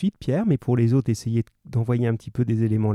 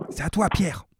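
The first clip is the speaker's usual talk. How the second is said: whispered cue to a student, no voice; whispering his turn to read aloud; 6 semitones higher, 3 dB quieter than usual. Real, not acted. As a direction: breathe it so only Pierre hears. Teacher cueing student mid-reading.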